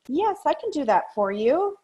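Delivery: high, hesitant yes that does not mean it; unwilling yes. Shown as a demonstration. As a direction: sound like you'd rather not. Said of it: "it might sound something like, okay, I'll give you an example".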